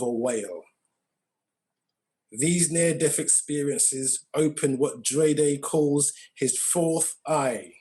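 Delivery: measured read with pauses between phrases; solemn introduction read from a script; reading a bio aloud. Real, not acted. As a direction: read out a guest's biography, phrase by phrase. Reads out guest's bio.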